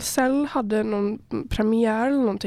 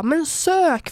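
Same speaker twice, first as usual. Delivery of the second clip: raised, louder mock plea; mock urging, pitched up; acted-out urging; 6 semitones higher, 4 dB louder than usual. Host urging passers-by to apply, mock-pleading and raised.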